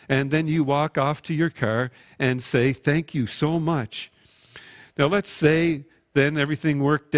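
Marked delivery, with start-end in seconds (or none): 2.7-4.1 offhand thanks. Acted. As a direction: toss it over your shoulder as you leave. Quick thanks walking off to car.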